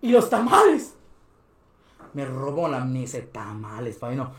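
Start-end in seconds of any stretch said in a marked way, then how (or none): 0.0-1.0 high, loud questioning señora; imitated alarmed boss. Señora waking the sleeping vendor over stolen tamales, imitated alarm. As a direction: demand an answer, pitched up high.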